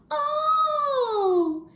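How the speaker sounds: high squeaky laughing oh; a startled little laugh-cry. Retold or imitated. Caught out by God, laughing high. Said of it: "I laughed, I said".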